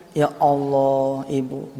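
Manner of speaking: slow, soft, tearful cry to God; a man's mild retold sob of confession; sobbing confession. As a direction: let it break like a sob, hushed. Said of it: "nangis sesenggukan dia".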